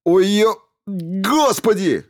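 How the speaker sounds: high, loud cry of pain; pained yell. A narrator's reading. Stevens screams in pain as the robot stitches him. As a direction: howl out as the needles dig in. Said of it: "заорал Стивенс".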